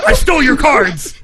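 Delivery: mock villain entrance line; Kaiba. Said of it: "Kaiba just shows up randomly".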